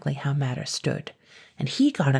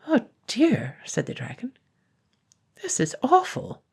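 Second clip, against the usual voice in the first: dismayed dragon; 8 semitones higher than usual. Acted. Dragon dismayed by screaming baby.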